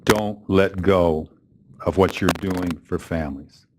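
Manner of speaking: slow, measured imitation of a solemn plea; somber plea. Elderly man urging his guest to keep helping families, somber. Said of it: "he gets real somber".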